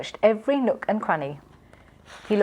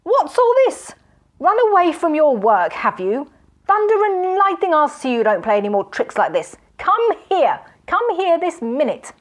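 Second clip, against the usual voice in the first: very high, loud furious outburst; enraged shouting; 9 semitones higher, 5 dB louder than usual. A narrator's reading. Magician discovering the servant fled, enraged shouting. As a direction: explode at the runaway. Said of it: "he cried".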